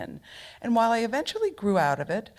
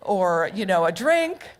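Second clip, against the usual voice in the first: mock indignant disbelief; 3 semitones higher, 4 dB louder than usual. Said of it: "I said".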